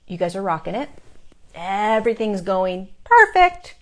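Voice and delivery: lightly voiced guides, pleased then asking a favour; guides cheering on. Guides praising humans to her, imitated upbeat cheering. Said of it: "That's what it's like".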